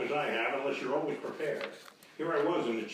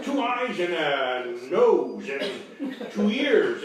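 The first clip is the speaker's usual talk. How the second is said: laughing; 3 semitones higher, 6 dB louder, much slower than usual. Real, not acted. Fumbling the description, laughing.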